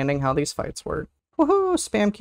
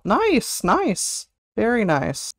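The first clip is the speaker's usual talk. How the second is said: high squeak; 4 semitones higher, much slower than usual. Real, not acted. Reacting to chat.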